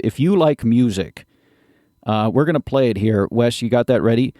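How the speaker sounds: infomercial pitchman voice; hard sell ad. Acted. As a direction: sell it like a late-night ad.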